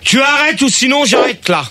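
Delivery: irritated threat. Real, not acted. Radio host threatening to end the debates, irritated. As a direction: threaten to walk out, fed up.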